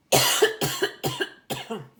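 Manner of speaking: hard hacking cough; coughing fit. Real, not acted. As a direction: cough hard, throat tickling. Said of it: "je m'étouffe".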